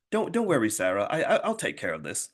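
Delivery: rough attempt at a British accent. British airport lady reassuring a stranded traveler, poor British accent. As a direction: imitate a British woman, not very convincingly. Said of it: "in her British accent".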